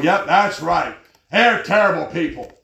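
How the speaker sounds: loud mock agreement. Preacher retells joining in with a ranting lady, mocking. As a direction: egg her on with mock indignation. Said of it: "I'm just mocking this lady".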